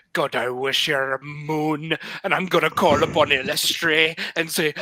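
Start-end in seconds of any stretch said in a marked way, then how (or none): 0.1-2.0 put-on Irish accent. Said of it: "stay Irish and not Scottish".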